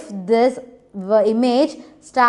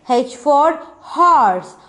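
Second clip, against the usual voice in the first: slow recital; much slower than usual. Shown as a demonstration. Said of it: "teacher reciting letter phrase".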